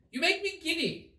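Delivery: high haughty queen voice; the queen complains grandly; imperious queen. A narrator's reading. Queen scolds gardeners, high haughty voice.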